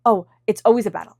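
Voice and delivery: mock the tired grumble of someone always fighting; weary complaint. Voicing a worn-out complainer, mildly exasperated. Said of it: "not feeling like".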